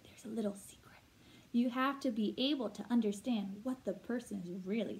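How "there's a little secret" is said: secretive whisper. Pretend. Teacher telling students about hidden meaning, conspiratorial whisper. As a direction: let them in on it, hushed.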